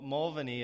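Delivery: "Mulvaney" as MUL-vuh-nee; alternative pronunciation. Retold or imitated. Host offers a second Irish guess, "Mulvaney" as MUL-vuh-nee. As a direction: say "Mulvaney" with a short, reduced middle. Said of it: "the Irish guys corrected you on".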